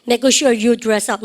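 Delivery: very slow, each word spaced for the class; drawn out so students can repeat after; very slow model phrase. Shown as a demonstration. Teacher modelling for class repetition, very slow. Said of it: "시작".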